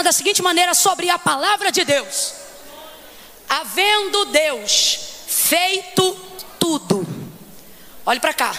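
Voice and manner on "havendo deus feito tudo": solemn scripture reading. Acted.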